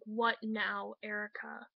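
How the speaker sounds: understated mock exasperation; imitating his annoyance. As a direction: retell his grumpy wake-up snap, lightly. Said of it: "how I'm saying this is exactly how he said it".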